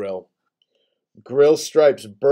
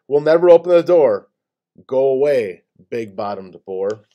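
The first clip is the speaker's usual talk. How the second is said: defiant shout; 6 dB louder than usual. Acted. Gators shout back at boar.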